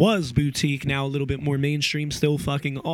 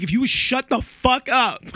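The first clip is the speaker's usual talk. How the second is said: mock yell; 8 semitones higher, 4 dB louder than usual. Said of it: "I'm like".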